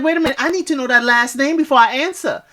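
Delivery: quick, lightly voiced Julie checking his last name; a hint of a giddy bride-to-be; imitating Julie. Quoting Julie asking his last name, quick light imitation. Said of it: "She's like".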